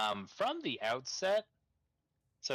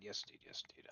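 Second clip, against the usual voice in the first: trailing off to nothing; 2 semitones lower, 14 dB quieter, much faster than usual. Pretend. Repeated, fading each time.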